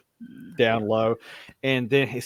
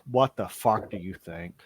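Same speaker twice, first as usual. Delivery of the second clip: exasperated cleric; 3 semitones lower than usual. Acted. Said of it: "the cleric looks at you and says".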